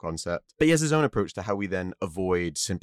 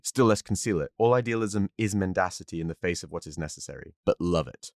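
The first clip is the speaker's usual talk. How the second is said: measured quote reading with understated gravitas. Shown as a demonstration. Host drops the accent to read Nietzsche, understated gravitas. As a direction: read it out seriously, lightly weighted. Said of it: "we'll go with gravitas now".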